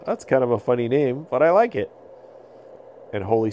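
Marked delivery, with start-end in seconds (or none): 0.1-1.9 put-on giggling boy. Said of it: "Avon giggled a little bit".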